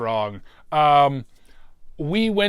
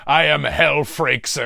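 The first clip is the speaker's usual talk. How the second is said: host voice; 3 semitones higher, 7 dB louder, slower than usual. Acted. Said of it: "That's right".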